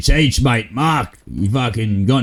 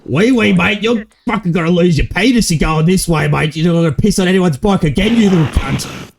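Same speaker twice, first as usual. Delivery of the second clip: angry threat; 4 semitones higher than usual. Acted. Threatening rival gang member.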